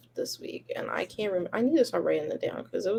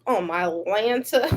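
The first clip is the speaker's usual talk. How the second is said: toddler imitation; 4 dB louder, slower than usual. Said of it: "She goes".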